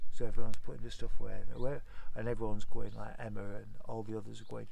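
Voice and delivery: normal talking voice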